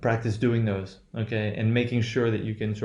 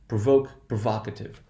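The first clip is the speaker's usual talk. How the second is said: "Provoke, provocative" with the second syllable stressed in both. Shown as a demonstration. Teacher showing the accent does not shift, second-syllable stress. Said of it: "no shift in the position of accent".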